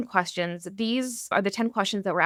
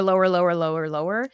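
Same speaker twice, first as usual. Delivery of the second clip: each lower dropping deeper in pitch; sinking lower; 4 semitones lower than usual. Shown as a demonstration. Host showing how she thinks her voice lower. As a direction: let the voice sink down step by step. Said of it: "mentally thinking lower".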